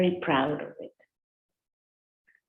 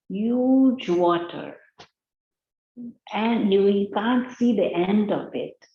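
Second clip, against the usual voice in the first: higher, louder, wide-eyed telling of something huge; eager boasting frog; 4 semitones higher, 3 dB louder than usual. Acted. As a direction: make the ocean sound enormous. Ocean frog describes the ocean.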